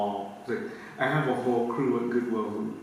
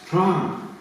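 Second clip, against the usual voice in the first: laughing through the retold phone message; laughing quote; 6 semitones higher, slower than usual. Recalling the bookstore's voicemail to him, laughing.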